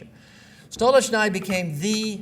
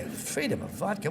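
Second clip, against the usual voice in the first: softer, rising scornful repeat of "Freedom of vodka"; scornful echo; 2 semitones higher, 7 dB quieter than usual. Retold or imitated. Speaker mocking a bad slogan to the class, soft scornful disbelief. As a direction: sneer "Freedom of vodka" back as a baffled question. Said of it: "what is that stupidity?".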